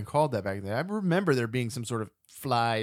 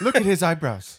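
laughing mock voice; 5 semitones higher, 7 dB louder than usual. Adding to Splinter bit.

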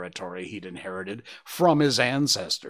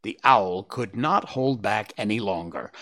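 plain reading voice

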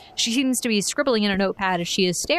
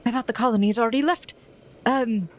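confused doctor; 3 semitones higher, faster than usual. Acted. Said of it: "looks you up and down, confused".

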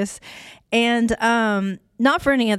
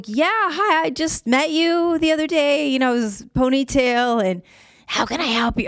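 mock cheery greeting; 5 semitones higher than usual. Mocking herself greeting the clerk.

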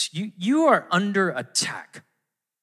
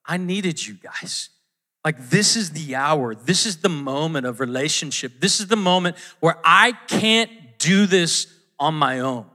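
sincere. Shown as a demonstration. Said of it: "you can sense there's this sense like".

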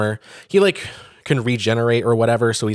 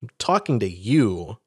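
forceful Thor; 4 semitones higher than usual. Retold or imitated. Thor redirecting the giant toward the sky, insistent. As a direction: cut him off, set him straight. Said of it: "And he's like".

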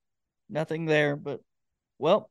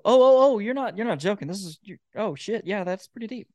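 mock sudden realisation; 5 semitones higher than usual. Listener realising the song isn't joking, mock surprise. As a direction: play a listener caught off guard.

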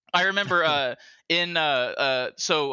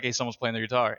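distant voices; 5 semitones lower, 4 dB quieter, faster than usual. Retold or imitated. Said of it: "if they're far away, they're quieter".

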